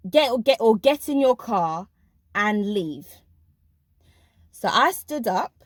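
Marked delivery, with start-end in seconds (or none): 0.1-3.1 mock bossy order. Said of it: "This is in quotes".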